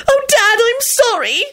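high, tearful wail of apology; a lightly acted daughter's wail. A narrator's reading. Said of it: "Rosie wailed".

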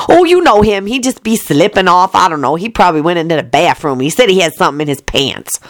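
nanny whispering to the master; doting nanny. Acted. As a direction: hush and gush over the sleeping baby. Nanny voice again.

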